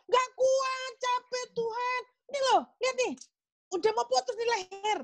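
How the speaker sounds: hammed-up whiny pleading, pitched well up; mock wailing. Worn-out believer tells God they cannot go on, mock wailing. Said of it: "anak-anak Tuhan sudah mulai jerit-jerit".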